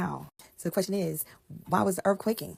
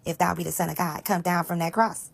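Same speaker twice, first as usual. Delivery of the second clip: sneering dare, rising in volume; louder mocking taunt; 5 dB louder than usual. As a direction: jeer it up at the cross, getting louder. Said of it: "saying to them".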